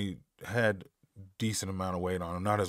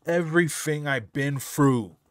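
lyric echoed in a higher, louder mock British accent; 6 semitones higher, 6 dB louder than usual. Reactor imitates the singer's British accent, higher and louder. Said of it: "we just say it different".

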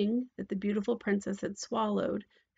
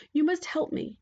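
higher, insistent princess; demanding princess; 7 semitones higher than usual. A narrator's reading. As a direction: demand help as a king's daughter.

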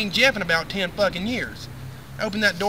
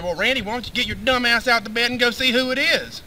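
a hint of a nagging wife, pitched higher; higher, scolding wife imitation; wife's voice; 6 semitones higher, 4 dB louder than usual. Wife scolding husband from bed, lightly voiced higher. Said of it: "She said".

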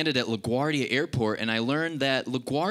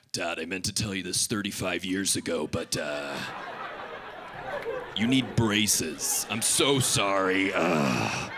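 sheepish dentist; 6 semitones lower than usual. Retold or imitated. Dentist apologizing to father.

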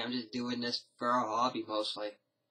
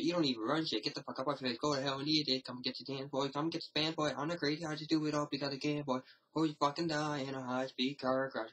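mock swearing rant; faster than usual. Vlogger reciting his own version of a swear video, mock angry. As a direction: rattle off the swearing like a mock tirade. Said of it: "I just did my own version, just going".

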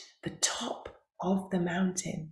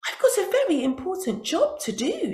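high beetle voice; 8 semitones higher, faster than usual. Acted.

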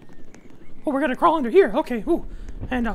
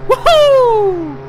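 excited shouting; 8 semitones higher, 7 dB louder, much slower than usual. Real, not acted. Got a car.

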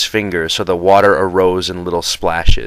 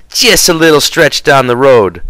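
higher sneering mimicry; mocking the driver; 5 semitones higher, 4 dB louder than usual. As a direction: parrot the driver's words with scorn.

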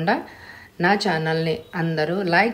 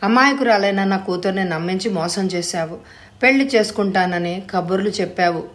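angry. Acted. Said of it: "ఆవేశంగా మీదకొచ్చారు".

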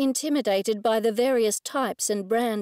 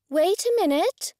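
calling out; 8 semitones higher, 3 dB louder than usual. Acted. Vet calling out.

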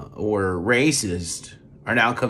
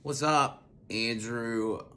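ordinary delivery

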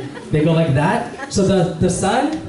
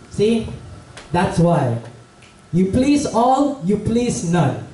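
slow, higher-pitched grandmotherly moral; lola; 3 semitones higher, slower than usual. Acted. Lola walking behind father and son, slow knowing reproof. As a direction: wise old granny spelling it out, pitch up on "all", down on "none". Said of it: "behind them the whole time was a lola".

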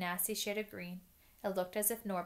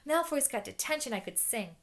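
high, louder delight; gleeful; 5 semitones higher, 5 dB louder than usual. Acted. Hermione celebrating Malfoy's detention, gleeful and high. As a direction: crow it with glee.

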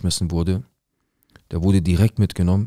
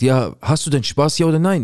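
higher, pushy demand; lightly voiced annoyed girlfriend; 7 semitones higher than usual. Jacqueline demanding yes or no from him, in a light higher voice. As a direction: press him for an answer, a bit higher.

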